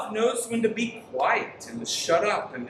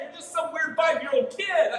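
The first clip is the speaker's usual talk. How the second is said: laughing mock scold; 8 semitones higher than usual. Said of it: "I wanna say".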